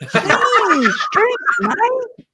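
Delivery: playful mock Australian accent. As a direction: ham up the Australian accent, mate. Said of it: "I sound like an Australian".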